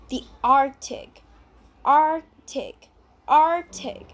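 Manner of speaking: ARCTIC said with no k before the t, "AR-tic"; silent C. Shown as a demonstration. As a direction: drop the first C in Arctic, slowly modelled. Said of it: "We don't really pronounce the letter C".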